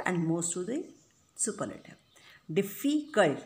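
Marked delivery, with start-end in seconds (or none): 2.5-3.4 "Difficult" broken up, dif-fi-cult; syllable by syllable. Shown as a demonstration. Teacher counting syllables for students, "Difficult" split into its parts. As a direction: sound out "Difficult" in separate syllables. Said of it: "how many times you stress the word".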